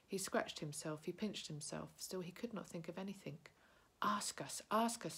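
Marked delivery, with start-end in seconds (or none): 4.0-5.1 higher, pushy creature voice rising; impatient Gollum. Acted. Gollum demands Bilbo ask a riddle, higher impatient creature. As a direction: nag him, a creature who can't wait.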